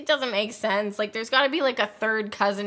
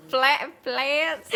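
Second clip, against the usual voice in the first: botched Scottish accent, laughing; Scottish accent gone Southern; 3 semitones higher than usual. Shown as a demonstration. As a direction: attempt Scottish, slip into Southern. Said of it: "now I just sound Southern".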